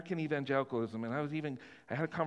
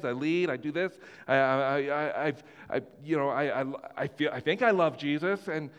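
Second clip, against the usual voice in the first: anxious believer; 3 semitones higher, 4 dB louder than usual. Retold or imitated. Voicing a worried churchgoer.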